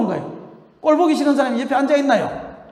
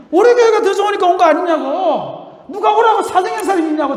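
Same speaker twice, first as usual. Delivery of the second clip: retold scolding; 7 semitones higher, 4 dB louder than usual. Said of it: "내가 막 그래요".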